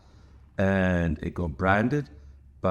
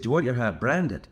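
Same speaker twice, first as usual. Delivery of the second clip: slightly higher mock Texan accent; put-on Texan accent; 5 semitones higher than usual. Store owner offering to brand the hat, put-on Texan accent. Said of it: "He didn't say it in that accent".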